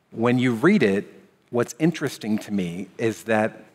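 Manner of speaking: ordinary delivery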